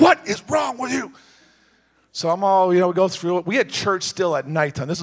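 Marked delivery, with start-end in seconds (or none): 0.0-1.1 exasperated wife shouting at her husband; wife's sharp question. Retold or imitated. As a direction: fire it at him like an angry wife. Wife confronting him at home.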